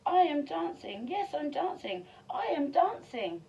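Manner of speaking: high, loud and delighted; joyful cry. Acted. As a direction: shout it out with pure joy. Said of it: "Gerald cried".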